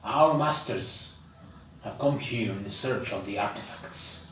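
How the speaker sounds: a hint of a stately dragon, halting between phrases; dragon-like creature. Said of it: "that dragon-like creature says".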